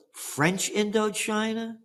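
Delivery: French Indochina said slowly as if it were absurd; incredulous question. Shown as a demonstration. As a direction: scoff at the name French Indochina, slow and disbelieving. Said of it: "you got the nerve to call it French Indochina".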